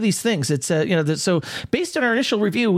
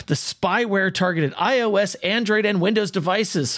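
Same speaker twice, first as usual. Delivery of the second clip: news read; 2 semitones higher than usual. Acted. Reads news headline aloud.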